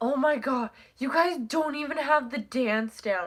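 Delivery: loud, high angry scolding. Retelling someone getting mad at the group for no reason, imitating someone being mad. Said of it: "Like being mad at us".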